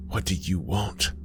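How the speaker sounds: softly, holding composure; keeping composure. A narrator's reading. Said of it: "worked hard to maintain her composure".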